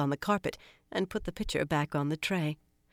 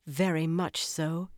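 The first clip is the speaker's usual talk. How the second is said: grim; slower than usual. Acted. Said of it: "Elaine replied grimly".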